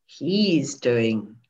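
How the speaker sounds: very slow, low "doing that thing again", breaking into laughter; long teasing "Ooh", then lingering on "thing"; suggestive tonality. Shown as a demonstration. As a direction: savour every word of "he's doing that thing", drawn out. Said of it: "in what tonality of voice".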